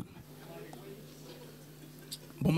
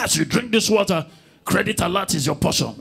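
pastor's prayer; 4 dB louder than usual. Retold or imitated. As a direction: intone it like a pastor blessing water.

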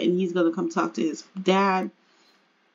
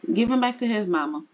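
quick instruction; faster than usual. Pretend. First take, then reworded slowly.

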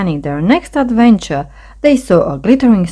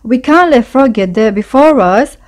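high, mildly raised urging; urgent cry; 6 semitones higher, 4 dB louder than usual. A narrator's reading. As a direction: urge the others on to beat Frog. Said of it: "cried Vole".

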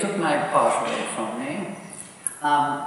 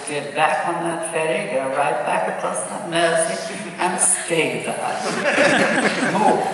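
loud, firm mock telling-off growing louder; 4 semitones higher, 5 dB louder, slower than usual. To the singer, a laughing scolding. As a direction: order him off with a laughing scold. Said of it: "I said".

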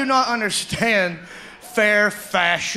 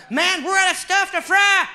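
mock fry cook; 9 semitones higher than usual. Fry cook complaining to buddy.

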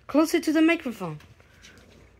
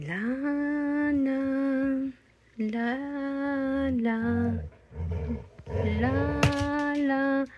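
quiet la la demo; 6 dB quieter, much slower than usual. Shown as a demonstration.

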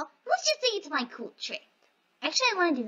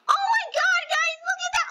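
excited gasp; 10 semitones higher than usual. Real, not acted. Excited discovery, then whispers.

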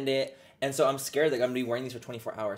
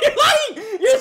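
high giggling accusation; laughing; 11 dB louder, slower than usual. Real, not acted.

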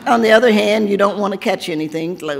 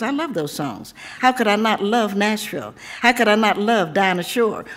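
poem recital. Acted. Poet reciting her Tennessee poem to the audience, rhythmic and proud. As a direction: recite it like a proud refrain to a home crowd.

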